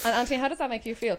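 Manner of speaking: lightly voiced therapist asking how that feels; mock therapist. Podcast host teasing Anthony as a mock therapist, lightly voiced. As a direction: play a gentle shrink questioning him. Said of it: "Doctor Caroline Gorman in the house".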